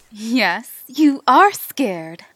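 slow, menacing predator taunt; haunted house actor. Acted. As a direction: savor their fear, drawn out. Predator taunting scared prey.

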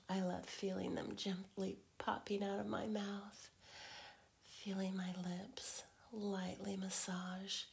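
intimate teasing whisper. Acted.

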